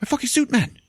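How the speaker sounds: high, squealing outrage over the suit; outraged whine. Retold or imitated. Wounded Charlto whines to his friends, high and indignant. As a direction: wail it like the suit matters most. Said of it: "He's like".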